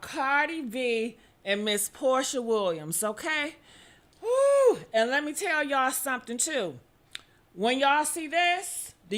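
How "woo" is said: high whooping woo to open; excited woo. Real, not acted. Hostess welcoming viewers with a high happy whoop. Hostess hypes upcoming show topic.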